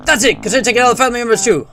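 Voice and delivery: high, loud, fast American announcer; hammed-up Cold War American voice; American accent. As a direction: rattle it off like an American drill instructor. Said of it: "like, an American voice".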